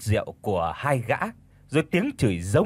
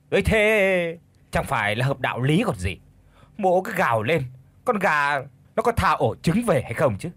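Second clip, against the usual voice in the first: lightly acted smirking drunkard; rising, teasing jeer; sneering mockery; 4 semitones higher than usual. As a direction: taunt her with mock reasoning. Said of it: "nhếch mồm cười đều".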